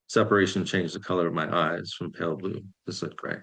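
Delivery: measured poem reading, each line falling away; poetry reading. Acted. Poet reads own poem to online audience, measured recital. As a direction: read it as verse, pausing between lines.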